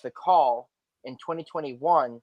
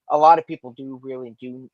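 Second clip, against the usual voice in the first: tongue-tied from braces; words tripping over the braces; 6 dB louder than usual. Real, not acted. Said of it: "sorry, my brace has got me tongue-tied".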